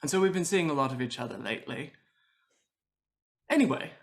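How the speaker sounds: lightly gushing party host; a touch of showy host, pitch swooping; chatty effusive host. Acted. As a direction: prattle on to cover the awkwardness. Host voices character to guest.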